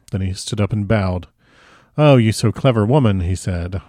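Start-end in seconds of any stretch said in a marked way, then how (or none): 2.0-3.2 lightly voiced admiring foreign professor; louder, a touch of delighted praise; Van Helsing.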